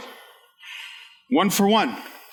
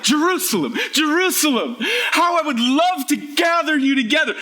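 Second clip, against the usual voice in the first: higher-pitched, emphatic cry of JERUSALEM; emphatic Jesus; 5 semitones higher than usual. Retold or imitated. Preacher quoting Jesus to show repetition, emphatic. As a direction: quote Jesus with fervent emphasis on each JERUSALEM. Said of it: "he's emphatic".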